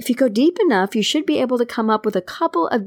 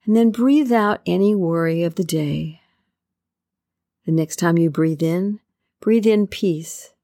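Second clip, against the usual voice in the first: guided meditation. Acted. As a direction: ease the listener into calm with long pauses.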